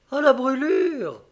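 exclamation lente, nettement plus haute; découvrir la chose avec un choc; saisissement. A narrator's reading. Elle découvre soudain la brûlure. (exclamation saisie)

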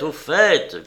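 loud insistent repeat, dropping at the end; furious shout, falling. Acted. José repeating his furious demand to the old woman. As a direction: hammer the demand home. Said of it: "cria José furieux".

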